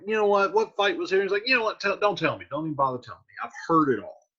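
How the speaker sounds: going off. Retold or imitated. Romeo reacting to the fight he missed, mildly going off. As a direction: rattle it off like you're fed up, mildly hammed-up. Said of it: "Romeo goes kinda off on this".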